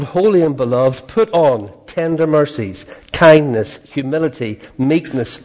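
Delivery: emphatic, measured reading from the pulpit; scripture reading. Acted. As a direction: proclaim each phrase of the verse firmly. Reads scripture aloud.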